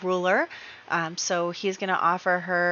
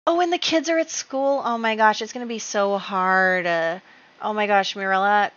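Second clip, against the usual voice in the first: real dismay; 2 semitones higher, 5 dB louder than usual. Real, not acted. Player feeling for her widowed character, dismayed. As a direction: lament it as it dawns on you.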